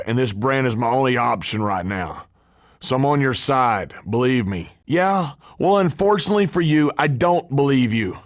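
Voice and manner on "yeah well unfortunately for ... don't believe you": scornful dismissal. Acted. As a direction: brush off his excuse quickly. Rejecting a suspected traitor.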